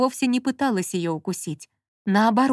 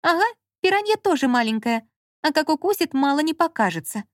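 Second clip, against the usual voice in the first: put-on higher girlish voice; lightly voiced fussy young woman; Lola's voice; 7 semitones higher than usual. A narrator's reading. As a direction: argue back, half-scared. Lola argues about piranha.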